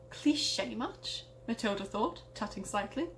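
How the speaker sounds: hammed-up storyteller narration; dramatic story reading. Reading her childhood story aloud, dramatic narrator voice. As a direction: read it like a spooky tale by the fire. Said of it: "my best attempt at dramatically reading a story".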